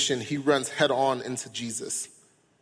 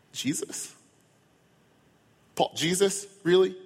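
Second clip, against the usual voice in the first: incredulous; 6 semitones higher than usual. Pretend. Preacher mock-arguing with Paul.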